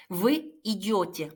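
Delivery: very slow, careful Он или она идёт; slow demo. Shown as a demonstration. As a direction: spell out Он или она идёт slowly for learners. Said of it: "teacher demonstrating conjugation". (학생들에게 또박또박 천천히 시범)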